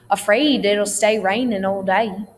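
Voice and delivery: AFRAID, STAY, RAINING, DAY with dialect long A; long A tongue twister. Shown as a demonstration. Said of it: "Long A sounds".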